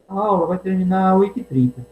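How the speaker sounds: a second contrasting reading of the sentence; different intonation. Shown as a demonstration. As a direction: lift the pitch through the line. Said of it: "com entonação diferente".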